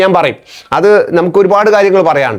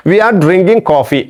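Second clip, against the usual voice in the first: slow dictation; 3 semitones higher, much slower than usual. Shown as a demonstration. Teacher dictates example slowly.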